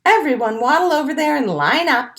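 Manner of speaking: loud, fast directing call; bossy little penguin. Acted. Little penguin directs the group, bossy. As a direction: round them up briskly. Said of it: "says the little penguin".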